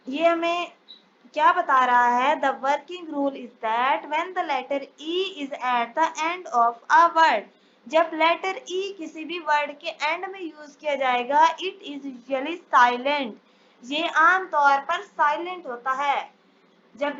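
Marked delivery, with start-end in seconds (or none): 2.4-7.4 reads the English rule out very slowly, word by word; measured classroom dictation. Shown as a demonstration. 11.6-13.3 reads the English rule out very slowly, word by word; measured classroom dictation. Shown as a demonstration.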